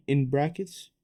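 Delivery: "in brackets" set apart with emphasis; slow down and lean on "in brackets"; stress on IN BRACKETS. Shown as a demonstration. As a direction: make "in brackets" stand out. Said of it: "emphasis on the in brackets".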